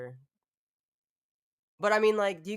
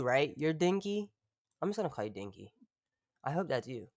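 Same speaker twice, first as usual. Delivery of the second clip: ordinary talk, nothing marked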